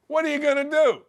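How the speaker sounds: usual speaking voice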